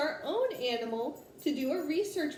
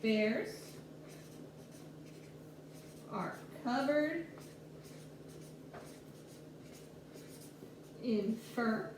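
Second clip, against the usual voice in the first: slow dictation; 4 semitones lower, 9 dB quieter, slower than usual. Shown as a demonstration. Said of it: "So I might say".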